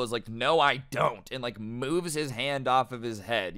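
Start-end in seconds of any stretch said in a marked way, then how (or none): 0.3-1.3 slow, drawn-out mock refusal; retold blunt denial; brutally blunt. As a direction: shut him down bluntly, dragging the words. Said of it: "just as brutal as possible".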